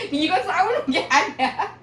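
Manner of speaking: high, drawn-out mock protest. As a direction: laughingly imitate insisting to a grandchild. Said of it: "왜 소리 지르면서 그래요".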